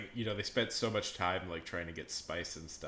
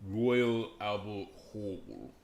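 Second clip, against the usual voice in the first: louder, drawn-out British accent; mock British accent; 5 dB louder, much slower than usual. Shown as a demonstration. Streamer repeating a favourite venue name, mock British accent. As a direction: stretch it out in fake British. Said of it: "uh, perfect British accent".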